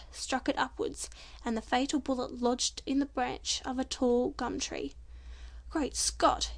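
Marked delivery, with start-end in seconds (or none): 5.7-6.5 startled exclamation. Acted. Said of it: "exclaimed Jack".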